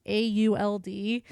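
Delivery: spelled A U L D letter by letter; spelling it out. Shown as a demonstration. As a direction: spell A U L D slowly, one letter at a time. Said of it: "called the Auld Alliance".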